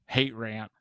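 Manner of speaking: words pushed out through a burp; talking through a burp. Real, not acted. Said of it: "I had gas in my mouth".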